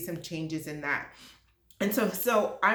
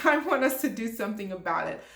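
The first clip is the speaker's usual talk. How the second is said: passionate; faster than usual. Real, not acted. To diversity leaders, openly passionate and laughing. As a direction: own the passion and push it out. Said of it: "Yes, I'm being passionate".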